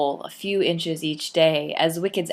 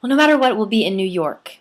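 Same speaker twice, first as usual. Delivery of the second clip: optimistic; 4 semitones higher, 4 dB louder than usual. A narrator's reading. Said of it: "ever the optimist".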